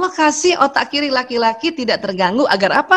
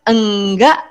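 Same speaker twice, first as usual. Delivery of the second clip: low denial, lifting at the end; drawn-out mock-sulky "no"; angry wife's denial; 3 semitones lower, 3 dB louder than usual. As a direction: lightly act a peeved wife denying it. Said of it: "pada saat dia marah".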